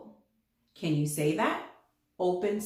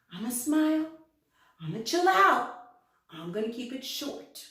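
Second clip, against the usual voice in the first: cheerful vowel O; 3 semitones higher than usual. Acted. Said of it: "He says".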